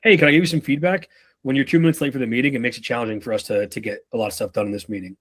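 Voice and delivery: fast, breezy boss tone; mock boss feedback. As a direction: rattle it off like a casual manager. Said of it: "your boss were to say to you".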